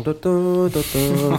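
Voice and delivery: sung ton ton notes imitating a piano tune; humming a melody. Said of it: "ça fait ton, ton". (fredonner la mélodie)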